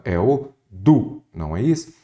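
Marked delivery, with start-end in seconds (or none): 0.7-1.2 DU held out and emphasized; single out "du" as the strong syllable; stressed syllable. Shown as a demonstration. Teacher naming the tonic syllable of produto, DU stressed and drawn out. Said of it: "A sílaba tônica".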